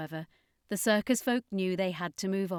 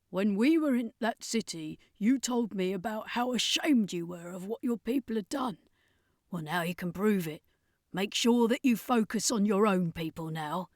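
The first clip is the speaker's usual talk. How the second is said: Carleen. A narrator's reading. Carleen voiced.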